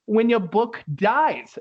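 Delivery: high, slow puppet voice; squeaky hand-puppet book, drawn out; talking book puppet. Retold or imitated. Podcaster voicing the puppet book asking Beetlejuice, high and slow. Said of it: "makes it talk with his hands".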